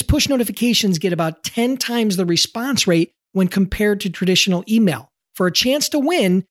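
upbeat, clearly articulated giveaway announcement; promo ad read. Acted. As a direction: pitch the prize to listeners.

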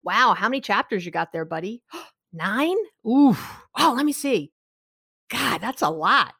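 mock-impressed sympathy; validating son. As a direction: gasp along with him. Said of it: "which I did".

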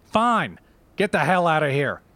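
snapping high, throwing him out; furious. Acted. Mother ordering the boyfriend out, angry. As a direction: get the hell out, fed up.

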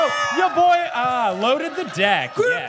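gleeful cheer. Real, not acted. Host cheering shared Gryffindor house.

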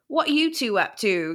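lightly put-on Cockney accent; Baxian. Imitating the audiobook's Baxian for co-host, light Cockney accent. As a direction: imitate a nosy Cockney bloke. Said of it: "there is a Cockney accent".

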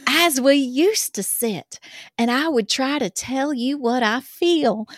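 put-on reading a love letter in a light Southern accent. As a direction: read it as a swooning Southern girl. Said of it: "that accent".

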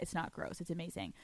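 soft, breathy whisper; whispered reassurance. Real, not acted. Host reassuring listeners in a whisper. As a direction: hush it like a secret.

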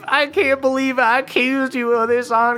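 high, squeaky and sorry; high-pitched apologetic elf; remorseful elf voice. Acted. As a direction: plead high like a guilty little elf. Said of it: "He goes, like".

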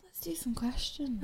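playful whispered agreement. Real, not acted. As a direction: whisper it back conspiratorially. Hushed reply before questions.

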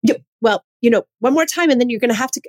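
mom correcting daughter. Retold or imitated. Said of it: "she was like".

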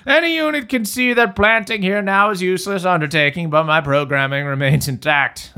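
a hint of a kindly old man. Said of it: "voice of a friendly old man".

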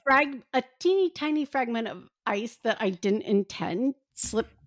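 speaking around a small ice chip; slightly muffled by ice; ice in mouth. Real, not acted. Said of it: "You just put ice in your mouth".

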